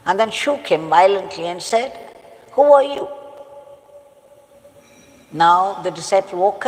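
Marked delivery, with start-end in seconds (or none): 2.5-3.1 sharp, louder and higher; angry demand. Retold or imitated. King wakes the disciple angrily, raised demand. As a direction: bark it at the sleeping man. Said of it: "got very angry now".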